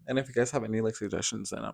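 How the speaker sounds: hushed ASMR-style whisper. Real, not acted. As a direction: whisper it softly to the viewers. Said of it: "Wait, why are you whispering?".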